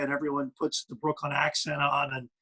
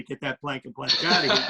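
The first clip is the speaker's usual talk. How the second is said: laughing catchphrase; 3 semitones lower than usual. Retold or imitated. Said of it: "I was about to say".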